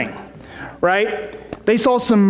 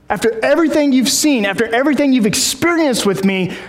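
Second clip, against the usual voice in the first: acted exasperation; 4 semitones higher than usual. Acts out Jesus pleading with disciples.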